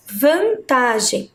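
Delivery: "vantagem" slowly, with a break after "van"; split into syllables. Shown as a demonstration. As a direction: sound out "vantagem" in slow pieces. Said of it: "dividi-las em sílabas".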